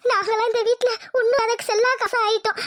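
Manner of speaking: put-on tearful complaint; a scheming aunt fakes a sob to her brother; fake crying. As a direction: weep falsely to win sympathy.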